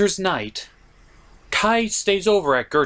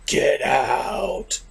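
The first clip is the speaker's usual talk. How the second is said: angry get out. Acted. Angry character kicks out reviewer.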